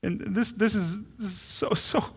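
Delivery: gaze at your newborn and melt; loving murmur trailing into a whisper; tender to a baby. Retold or imitated. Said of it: "looked at them like".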